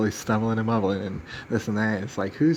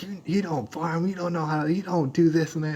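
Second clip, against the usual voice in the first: mock emotional accusation; 7 semitones higher than usual. Emotional guy accusing the speaker of not farming, high whiny mock. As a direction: mimic him getting emotional. Quoting the emotional guy's attack.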